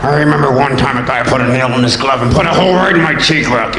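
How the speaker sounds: low slurred Rocky voice; Stallone impression. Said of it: "Stallone impression".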